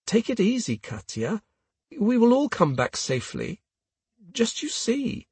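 halting reassurance. A narrator's reading. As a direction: comfort her gently, phrase by phrase. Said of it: "stutter in German".

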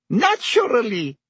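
high, lightly amused reply; small laugh. A narrator's reading. Landlady recalls Black's best friend, small laugh. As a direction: answer with a touch of amusement. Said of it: "with a small laugh".

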